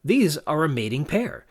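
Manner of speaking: a mild "aha" moment; sudden realization. Acted. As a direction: act out Grant suddenly working it out. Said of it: "Grant suddenly realizing".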